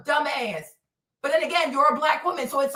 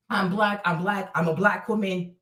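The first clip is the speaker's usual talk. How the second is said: lower, dismissive mock of a woman; mocking parrot; 7 semitones lower than usual. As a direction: parrot her claim in a lower voice to belittle it.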